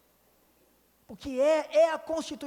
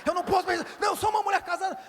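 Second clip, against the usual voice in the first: higher and louder, shouting the resolve; wife fighting temptation out loud; alarmed outburst; 9 semitones higher, 6 dB louder, much faster than usual. Retold or imitated. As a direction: burst out in alarm. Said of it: "E ela sai assim, falando".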